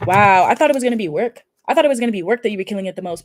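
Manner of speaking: loud, surprised wow. Real, not acted. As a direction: caught off guard by the card, speeding up. Surprised by the card.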